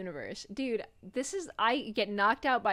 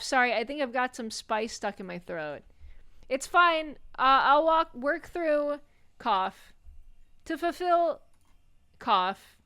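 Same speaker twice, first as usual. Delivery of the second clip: high loud spluttering ghost voice; overacted death scene; 4 semitones higher, 6 dB louder than usual. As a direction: choke out the last words. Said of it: "continues coughing".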